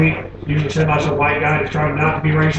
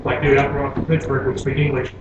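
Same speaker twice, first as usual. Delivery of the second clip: polite; 2 semitones lower, 5 dB quieter than usual. Acted. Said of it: "he's all polite about it".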